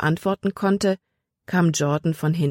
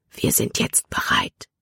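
hushed, voiceless whisper. A narrator's reading. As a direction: whisper it like a secret among many ears. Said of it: "flüsterte er". (leise geflüstert)

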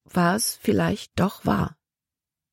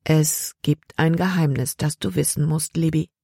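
soft voice. Acted. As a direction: ease into a comforting secret. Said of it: "war Omas Stimme ganz weich".

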